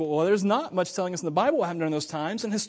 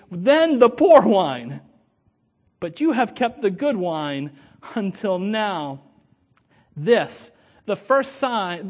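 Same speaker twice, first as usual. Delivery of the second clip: slow, measured Bible reading to the congregation; solemn reading of the Gospel; scripture reading. Acted. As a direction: read the passage with weight and pauses. Reads the scripture text aloud.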